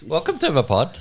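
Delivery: put-on host fumbling an Irish accent welcome; failed Irish accent. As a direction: greet the pod in a botched Irish accent. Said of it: "that is not the accent I was after".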